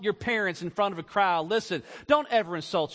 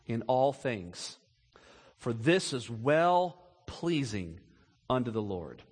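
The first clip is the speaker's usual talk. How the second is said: slow solemn scripture; 8 semitones lower, slower than usual. Shown as a demonstration. Preacher reading the verse to the congregation, slow and hushed. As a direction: let the verse sink in slowly. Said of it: "here it is, catch it now".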